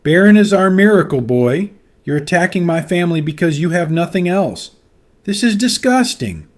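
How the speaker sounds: rough angry shouting. A narrator's reading. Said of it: "louder and rougher with every word".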